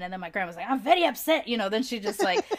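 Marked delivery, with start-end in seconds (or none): 0.7-1.5 imitating an indignant grandmother, higher and louder; mock outrage, pitched up and emphatic; mad grandma. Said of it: "my grandma will get so mad".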